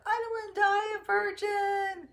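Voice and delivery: high-pitched mock yell, held up all through; retold panicked yell. Frantic teacher on a shaking plane blurts a confession, mock yell. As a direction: yell it out as the frantic passenger, hammed up. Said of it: "she yelled".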